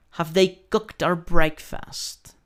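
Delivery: teacher's careful model of "Have they cooked our breakfast"; word-by-word, high questioning "Have they cooked our breakfast"; question intonation. Shown as a demonstration. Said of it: "debes ponerle cierta entonación".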